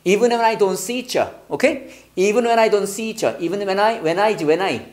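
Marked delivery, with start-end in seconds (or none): 0.0-1.3 "see 처" with T and U blended into "cha"; linked 처. Shown as a demonstration. Teacher models the lyric for students, linked ch sound. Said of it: "이걸 처로 발음해야 돼". 2.1-3.4 "don't see 처" ending in a blended "cha"; linked 처. Shown as a demonstration. Teacher repeats the lyric for students, linked ch sound. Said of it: "이걸 처로 발음해야 돼".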